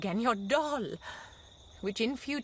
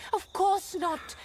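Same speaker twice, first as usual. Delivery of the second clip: higher, louder, drawn-out refusal; emphatic cry; 9 semitones higher, 7 dB louder, slower than usual. Acted. Wife flings her refusal at her husband, loud and slow. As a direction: cry it out slowly, no doubt allowed.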